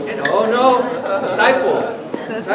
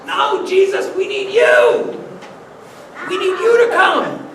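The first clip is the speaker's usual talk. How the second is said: pleading disciples; 8 semitones higher than usual. Acted. Disciples begging Jesus to stay, high pleading cry.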